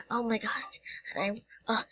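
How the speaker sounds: breathless whispered shock; stunned after the crash, whispering. Pretend. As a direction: whisper it in disbelief.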